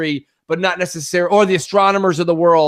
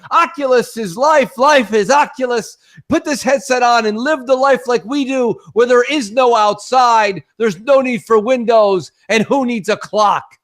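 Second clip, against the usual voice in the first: hammed-up tech evangelist sermon; mock VR evangelist; 5 semitones higher than usual. Mocking VR evangelists.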